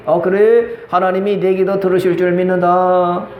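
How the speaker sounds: lightly acted apologetic priest; 엘리 제사장. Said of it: "미안했던 엘리 제사장이". (미안한 듯 차분히 축복하는 제사장)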